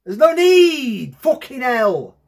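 high, drawn-out complaint after a scare; shaken protest. Real, not acted. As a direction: protest loudly, still rattled.

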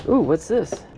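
ordinary talk, nothing marked

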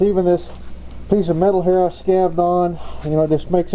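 muffled through a respirator mask; talking through a respirator; n95 respirator. Real, not acted. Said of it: "I gotta have my respirator on".

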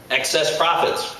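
drawn-out, high-pitched outcry; indignant cry. Acted. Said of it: "cried the cow".

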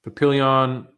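Papillion in a flat American accent, pa-PILL-yun; Papillion, Americanized, not French. Real, not acted. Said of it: "I said that in a very American accent".

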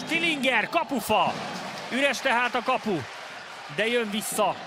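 excited Hungarian sports commentary. Acted. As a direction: shout the near miss on the empty net. Live handball play-by-play, near goal.

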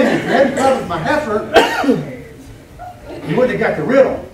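chuckling through the line; real laughter breaking into the quote; laughing. Real, not acted. Preacher laughing while repeating Samson's retort, chuckling. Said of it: "That's just funny".

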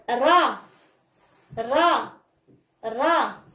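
الراء said as just "ra"; fatha syllable. Shown as a demonstration. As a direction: model الراء as one open syllable "ra". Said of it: "نحلو الفيم ديالنا الفوق".

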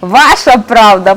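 повільно, переводячи подих; відповідай, ще задихаючись; відсапуючись. Acted. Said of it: "погодився привид, відсапуючись". (привид відсапується після бійки)

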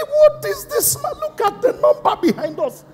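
very high, astonished voices; amazed onlookers. Retold or imitated. Pastor imitating people staring at the crowd. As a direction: squeal in disbelief. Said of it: "looking at it".

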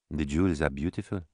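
soft, hushed aside; whisper. Acted. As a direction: lean in and murmur it. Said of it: "she said in a whisper".

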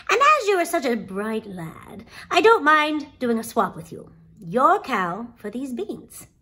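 a hint of a persuasive old man striking a bargain; lightly voiced swap offer, leaning on key words; lightly voiced wily trader.

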